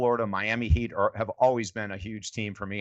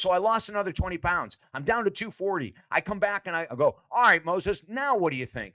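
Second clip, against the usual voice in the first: The speaker retelling; 8 semitones higher than usual. Retold or imitated. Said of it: "He goes".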